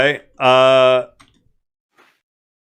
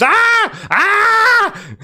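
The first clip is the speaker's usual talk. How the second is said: seagull squawk voice. Acted. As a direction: screech it out like a seagull. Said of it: "Carlin knows that he talks like that".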